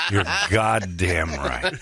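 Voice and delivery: slow, laughing through the words; slow laughing agreement. Retold or imitated. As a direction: chuckle it out slowly. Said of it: "I'm like".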